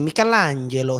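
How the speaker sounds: Michelangelo said the Italian way, mi-ke-LAN-je-lo, in a mock Italian accent; fake Italian accent. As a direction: roll Michelangelo out like a hammy Italian. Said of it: "words with a fake Italian accent".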